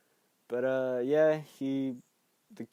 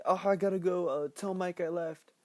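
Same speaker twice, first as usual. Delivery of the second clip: high, loud imitated panic; mock freak-out; 6 semitones higher, 5 dB louder than usual. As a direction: blurt it out high, acting flustered. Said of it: "He's freaking out".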